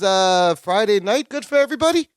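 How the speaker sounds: imitating a tough act slipping; mock tough guy gone friendly; dropped tough-guy act. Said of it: "he kinda drops his tough guy".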